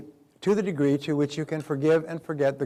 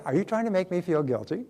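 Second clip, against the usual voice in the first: bright cheerful question, no edge; 4 semitones higher than usual. Shown as a demonstration. Speaker to a guilt-tripping mother, cheerful and light. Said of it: "say it with a cheerful voice".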